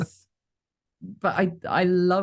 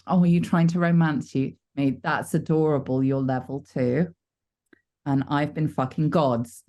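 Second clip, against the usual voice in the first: haughty teasing of a level-two suitor; lightly voiced sorceress, condescending; mock Malady voice.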